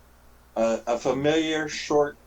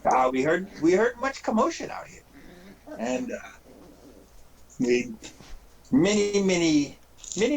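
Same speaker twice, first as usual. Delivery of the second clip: goblin voice leaping high on key words; swaggering goblin; 4 semitones higher than usual. Acted. Goblin reporting orcs hunting in the forest, swooping goblin voice.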